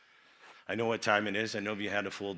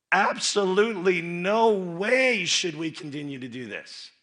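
forceful denial; 7 semitones higher, 7 dB louder than usual. Real, not acted.

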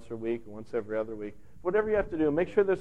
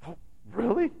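surprised; 10 semitones higher than usual. Retold or imitated. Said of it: "totally surprised, caught off guard".

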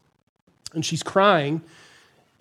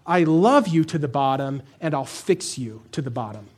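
tender reassurance; 5 semitones lower than usual. Retold or imitated. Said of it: "also says".

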